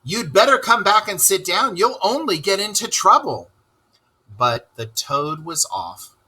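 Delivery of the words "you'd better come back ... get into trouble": warning rat voice. Acted.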